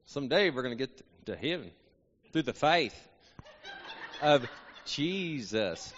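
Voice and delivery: Texan twang with paused, stretched key words; Texan accent. Shown as a demonstration. Preacher demonstrating to congregation, playful Texan accent. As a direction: lay a Texas twang on heaven, faith and Jesus. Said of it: "you gotta sound a little Texan".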